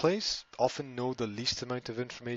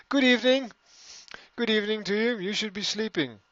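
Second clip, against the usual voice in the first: mock spooky host; 9 semitones higher, 6 dB louder than usual. Greeting late viewers in a put-on voice.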